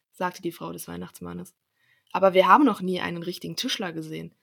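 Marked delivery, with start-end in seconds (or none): 2.1-4.3 louder storybook exclamation; children calling out. A narrator's reading. Children protesting to their mother about the carpenter, calling out. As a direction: call it out as eager children. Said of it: "riefen die Kinder".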